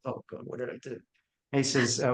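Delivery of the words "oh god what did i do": panicked. Retold or imitated. Panicking after insulting director.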